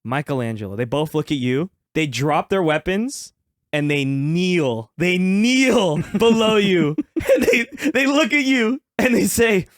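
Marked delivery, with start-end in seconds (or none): 1.9-9.6 cracking up while narrating; giggling through the words; laughing. Acted. GM laughing through kneeling scene.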